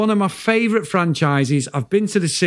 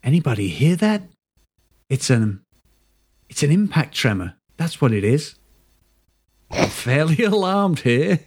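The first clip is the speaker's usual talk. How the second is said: put-on American accent. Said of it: "in the Chris Phelps American accent".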